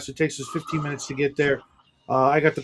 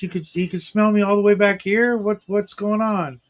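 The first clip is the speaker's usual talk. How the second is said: baffled retold reaction, pitched up; higher-pitched mock astonishment; mock bafflement; 5 semitones higher than usual. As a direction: play up puzzled disbelief. Retold baffled reaction to being singled out.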